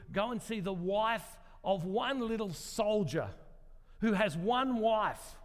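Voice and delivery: emphatic retold accusation, punching key words; preacher's mock confrontation, driven home phrase by phrase; accusing. Prophet Nathan confronts King David over his sin, accusing.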